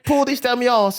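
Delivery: high-pitched Cockney through laughter; mock Cockney accent. Imitating the workmate for a laughing co-host, mock Cockney. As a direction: ham up the Cockney, nearly cracking up. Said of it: "It was like a Cockney".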